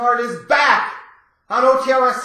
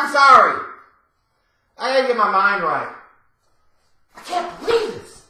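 ordinary talk

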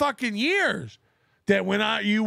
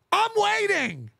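slow taunt; 5 semitones higher, slower than usual. Real, not acted.

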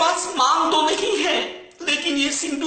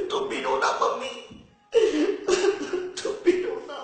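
giggling through a mock plea; can't keep a straight face; half-whispered giggly whine; breaking into laughter; 3 semitones higher, 5 dB quieter than usual.

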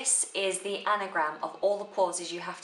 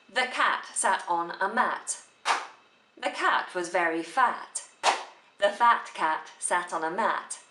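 verse recited with a clear stop after every line; rhythmical pauses. Shown as a demonstration. Teacher showing students line-end pauses in a poem, rhythmical pauses. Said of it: "rhythmical pause comes at the end of a line".

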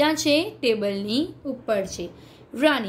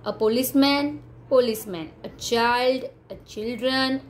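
measured word pairs, a pause after each; evenly spaced classroom recitation; singular-plural drill; much slower than usual. Shown as a demonstration. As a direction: read each pair out for pupils to repeat.

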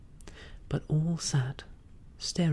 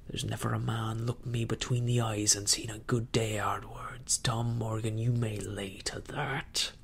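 put-on menacing old pirate Silver; 2 semitones lower than usual. Silver threatens Tom Morgan.

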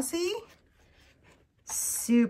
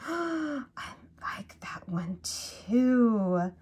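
awed whisper; 2 semitones higher, 4 dB quieter, much slower than usual. Real, not acted. Gasp then whisper.

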